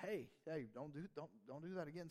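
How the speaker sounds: put-on calm, even warning to a child; gentle admonishment. A father gently warning his son, calm voice. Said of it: "it's an admonishment".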